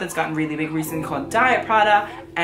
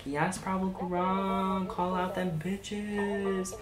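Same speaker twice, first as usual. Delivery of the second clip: cheering him on; 3 semitones higher, 10 dB quieter, much slower than usual. Retold or imitated. Cheering the designer on.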